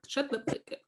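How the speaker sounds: mock shushing. Voices the lights telling them off.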